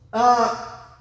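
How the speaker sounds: usual speaking voice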